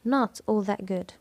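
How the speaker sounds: "not" leaned on to negate it fully; stress on NOT. Shown as a demonstration. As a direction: make "not" the prominent word. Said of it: "عملنا الاسترس على النفي". (التشديد على "not" للنفي)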